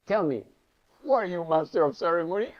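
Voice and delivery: a teacher snapping the student awake; commanding Swami. Retold or imitated. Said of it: "He touched the forehead and he said".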